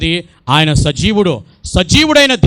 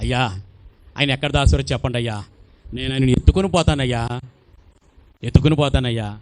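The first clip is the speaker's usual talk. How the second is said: pleading Mary; 3 semitones lower than usual. Acted. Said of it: "ఒక స్త్రీ అంటది".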